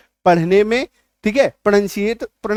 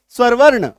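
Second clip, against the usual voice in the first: स्वर वर्ण said louder and crisp; emphasised term; 5 dB louder than usual. Shown as a demonstration. Teacher stressing the Hindi term. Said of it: "Hindi में क्या कहते हैं?".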